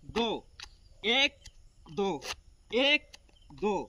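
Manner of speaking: quick loud counting demo; loud drill count. Shown as a demonstration. Instructor demonstrating the count to trainees, loud. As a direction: bark out the beat for the move. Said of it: "इस प्रकार से करना है".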